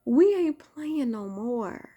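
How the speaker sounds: loud rallying call, last words stretched out slowly; hyped-up shout. Real, not acted. Rallying his viewers while holding his son, a loud hype call. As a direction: fire up the crowd.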